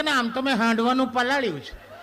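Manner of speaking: high, sing-song wife with a laugh; mock wife voice. Wife telling husband what's cooking, high and mock-sweet.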